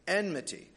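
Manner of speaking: enmity said carefully, n before m; careful pronunciation. Shown as a demonstration. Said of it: "It's a tricky word to say".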